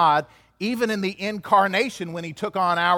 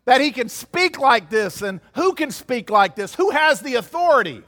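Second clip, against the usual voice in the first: higher, stunned questions tumbling out; bewildered onlookers; 5 semitones higher, 3 dB louder than usual. Retold or imitated. Leaders stunned by Jesus' words ask, lightly acted bewilderment. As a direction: mimic leaders gaping at his words. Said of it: "they're standing there with their jaws on the ground".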